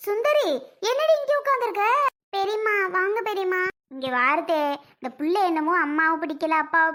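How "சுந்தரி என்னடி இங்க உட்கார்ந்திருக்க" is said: surprised calling out. Acted. Elder woman calls out to Sundari.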